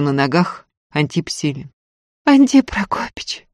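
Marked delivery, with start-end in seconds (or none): 2.2-3.5 high, drawn-out moan; простонала. Acted. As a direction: moan his name in pain. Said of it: "простонала Устинья". (протяжно простонать, высоко)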